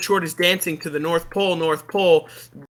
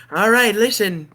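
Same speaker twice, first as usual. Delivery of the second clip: bad Tim Allen impression; 2 semitones higher than usual. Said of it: "It's not what Tim Allen sounds like".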